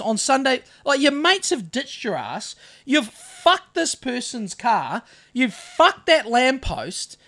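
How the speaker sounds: slow, emphatic telling-off; retold laying into someone. Storyteller laying into the young car thief, retold scolding. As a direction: re-enact a dressing-down, leaning on each accusation. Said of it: "I started laying into him".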